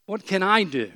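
"I" picked out in "What can I do"; stress on I. Shown as a demonstration. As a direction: put the weight on "I". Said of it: "The emphasis is always this way".

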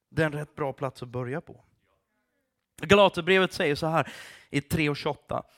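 ordinary talk, nothing marked

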